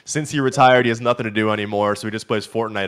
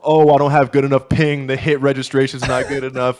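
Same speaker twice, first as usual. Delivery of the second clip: mocking whine; 5 semitones higher, 6 dB louder than usual. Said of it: "That's what".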